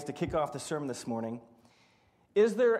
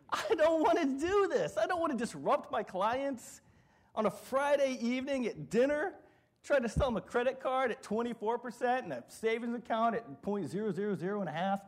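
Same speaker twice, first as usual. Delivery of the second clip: higher, complaining; reluctant whine; 5 semitones higher than usual. Retold or imitated. Banker dreads calling clients Friday night, mild whine. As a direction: grumble like you'd rather not.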